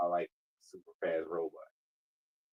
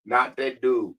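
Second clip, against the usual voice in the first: loud; 3 semitones higher, 6 dB louder than usual. Real, not acted. Yelling at assistant's voice.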